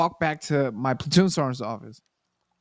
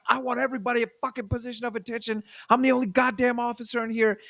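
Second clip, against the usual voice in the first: much higher, fast mock officer barking orders; hammed-up new lieutenant demanding attention; bossy lieutenant; 8 semitones higher, faster than usual. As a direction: puff up like a self-important rookie officer.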